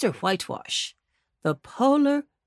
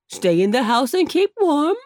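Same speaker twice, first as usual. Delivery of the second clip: calling out; 5 semitones higher, 4 dB louder than usual. Acted. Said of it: "called Uncle Wiggily".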